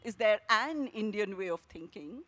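"there" punched and lifted, question rising; stress on THERE. Shown as a demonstration. Author demonstrating the actors' exercise, stress on "there". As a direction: hit the word "there". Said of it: "a commonplace line with emphasis on different words".

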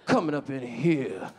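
low, slow, relishing elder voice; older Black man. Acted. Older man at Starbucks sizing him up, low and slow. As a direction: draw out each admiring jibe as an older man. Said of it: "Older black man saw me at".

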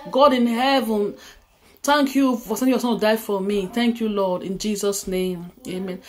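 earnest prayer read line by line for others to repeat; led prayer. Acted. Preacher leading viewers in salvation prayer, earnest prayer voice.

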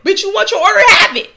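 imitating a sputtering, furious rebuke; Saw Baby impression. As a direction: stammer then rebuke her like a church lady. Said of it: "You know how Saw Baby".

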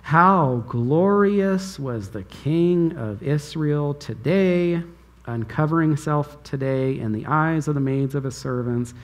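mocking, scornful read of Michal's words; dripping sarcasm. Michal ridiculing David for dancing, dripping with sarcasm. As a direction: sneer the praise so it means the opposite. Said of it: "it's just dripping with sarcasm".

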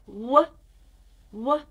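isolated W sound at the start of "white". Shown as a demonstration. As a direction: sound out the W on its own. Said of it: "can you make the W sound".

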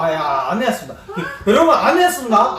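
laughing protest. Real, not acted. Denies it, laughing loudly.

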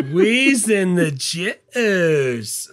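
stretched-out surfer drawl; slow drawled movie quote. Retold or imitated. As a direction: drag it out slowly like Pauly Shore. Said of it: "there was a toss-up between".

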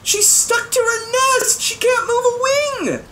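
put-on high, urgent boy's voice; a high, slowed urgent cry; urgent alarm. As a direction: plead urgently about the trapped robin. Bartholomew urgently describes the robin.

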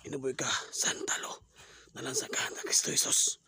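rapid hushed prayer; whispered incantation. Acted. Exorcist whispering a prayer against the aswang. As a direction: breathe the spell.

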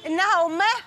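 loud theatrical classical Arabic; formal standard arabic. Acted. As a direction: command like a stage hero. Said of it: "العربية الفصحى".

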